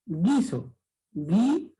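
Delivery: "Guiso", then "Gui" alone, hard G straight into I; silent U. Shown as a demonstration. Teacher shows only the I sounds in "Guiso", "Gui". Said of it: "No se pronuncia la".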